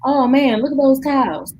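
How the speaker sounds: a hint of a gawking father; imitating dad. Daughter mimics her dad marveling at cows while driving, mock amazed. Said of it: "driving and he's like".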